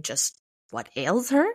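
slow echo, rising sharply on HER; baffled echo. A narrator's reading. Teenager puzzling over the man's odd greeting, baffled. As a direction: question it slowly, lifting at the end.

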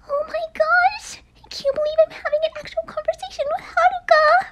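breathless fangirl whisper, high and hushed; giddy whispered aside; excited whisper. Acted. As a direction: squeal under your breath so she can't hear. Fan gushing to herself, hushed.

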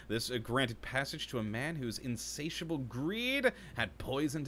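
storyteller reading lore aloud; dramatic reading. Acted. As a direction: read it like an epic tale. Reads in-game lore aloud dramatically.

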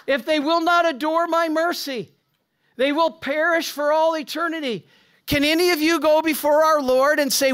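loud, high fervent sermon voice, pleading urgently; full-force preaching. Acted. Priest urging his congregation toward mercy, fervent preaching. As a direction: thunder it out to the congregation.

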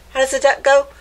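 put-on lively storybook read-aloud for kids; picture-book narration voice; reading to children. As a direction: read it like story time for little ones.

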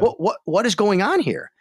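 retold incredulity, mildly acted; baffled disbelief. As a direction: sputter it as if you can't believe it. Retelling shock at impostor on air.

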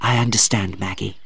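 soft, low, gentle reply; understanding. A narrator's reading. Philip consoles Maggie, gently understanding.

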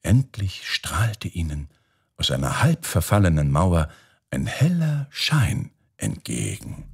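ordinary delivery, nothing marked

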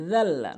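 জাল্লা as "dhalla", tongue tip at the teeth; soft dhal. Shown as a demonstration. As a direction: start জাল্লা with a voiced "th" sound. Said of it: "জিব্বার আগা দাঁতের আগে".

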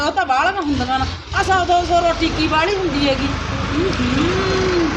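a spiteful stepmother plotting aloud; scheming stepmother. Acted. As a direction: hiss out the wicked plan like a stepmother.

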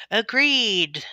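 quick, loud, high cry of agreement; hasty cry. A narrator's reading. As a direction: blurt it out all at once. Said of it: "cried all the others in haste".

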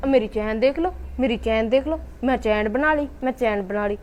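low, sing-song mock boasting; mocking mimicry. Jealous sister-in-law mimicking the other's boasts about her chain, mocking. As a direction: mimic her bragging under your pitch, phrase by phrase.

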